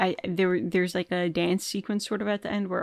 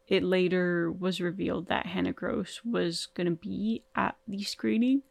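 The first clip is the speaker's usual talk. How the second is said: yawning. Real, not acted. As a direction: yawn at the sentence end. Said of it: "I yawned at the end of that sentence".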